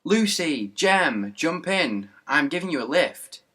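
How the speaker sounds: put-on dad shouting out of the window to his kids; shouting out the car window.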